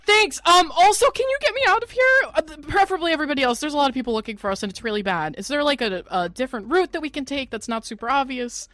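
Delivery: high, hurried urgent ask; urgent pleading. Acted. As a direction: rush the plea for help. Asking Lynn for escape route.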